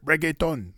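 reggaeton said reg-ay-TON with a Spanish flavour; Gino's reggaeton. Retold or imitated. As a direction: say reggaeton the Latin way. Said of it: "I always grew up just saying reggaeton".

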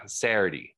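"Saturday" squashed into "Serr-dee", falling; local pronunciation. Retold or imitated. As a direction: repeat "Saturday" the Delco way. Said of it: "my grandma says".

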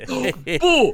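startling boo. Retold or imitated. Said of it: "comes up behind her and goes".

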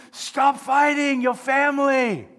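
high, loud, drawn-out order; God scolding. Acted. God to the arguing church family, scolding shout. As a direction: holler it like an exasperated parent. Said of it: "what God's attitude is".

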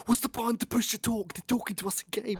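high, confused imitation of Nick; mock Nick. Retelling Nick's confusion to co-host, high puzzled voice. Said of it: "and Nick was like".

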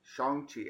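"Shang-Chi" carefully pronounced with a broad first vowel; corrective pronunciation. Shown as a demonstration. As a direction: say "Shang-Chi" as SHAHNG-chee, with an open "ah". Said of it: "I think is how it's pronounced".

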